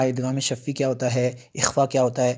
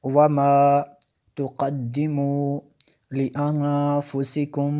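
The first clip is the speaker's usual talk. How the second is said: slow, stretched tajweed recitation; Quran recitation; much slower than usual. Shown as a demonstration. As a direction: recite each word slowly, drawing out the vowels. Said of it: "teacher reciting verse". (धीमी तजवीद वाली तिलावत)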